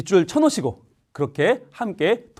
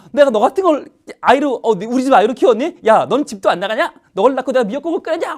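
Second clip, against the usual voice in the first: high-pitched mock tirade; acted exasperated maternal rant; scolding mother; 6 semitones higher than usual. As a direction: imitate a mother railing at her child. Acts mother's furious scolding.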